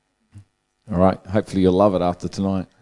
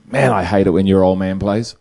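laughing through punchline; 5 dB louder than usual. Real, not acted.

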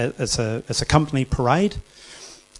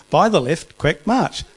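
shouted, drawn-out drill call; drawn out parade commands; 5 semitones higher, 5 dB louder, slower than usual. Retold or imitated. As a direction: call it across a parade ground.

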